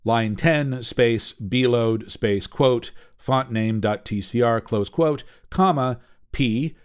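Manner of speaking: slow, spelled-out code dictation; dictating. Shown as a demonstration. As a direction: read out each symbol slowly and clearly. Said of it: "it would look something like this".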